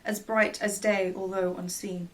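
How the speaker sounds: measured recital of a love poem; poem reading. Acted. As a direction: read the verse with a gentle lilt. Reads a poem aloud.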